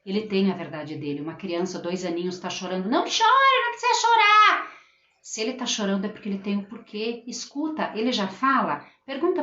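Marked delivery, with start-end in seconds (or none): 2.9-4.7 high-pitched, loud, insistent shushing; adult hushing crying child. Acted. Teacher to a crying two-year-old, high loud insistent hushing. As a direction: act out a pushy adult ordering tears to stop. Acting out scolding a crying toddler.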